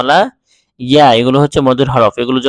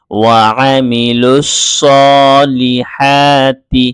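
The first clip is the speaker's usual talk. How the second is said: slow, drawn-out chanted reading; Quranic recitation; much slower than usual. Shown as a demonstration. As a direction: recite the words slowly and melodiously. Recites the joined word slowly. (ধীর সুরেলা কুরআন তিলাওয়াত)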